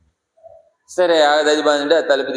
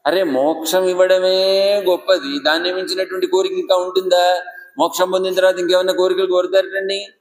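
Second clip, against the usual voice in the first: surprised exclamation; 4 semitones higher than usual. Acted. Krishna surprised at another wish.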